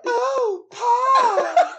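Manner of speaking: high, breathy sultry gasp. Retold or imitated. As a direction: swoon over the pie dramatically. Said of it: "Oh, that is hot".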